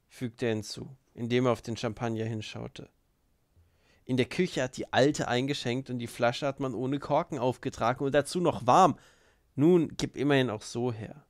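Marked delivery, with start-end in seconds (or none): 4.1-11.3 loud, indignant complaint; annoyed, emphatic character voice; grumbling guest. Acted. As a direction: grumble loudly about bad service.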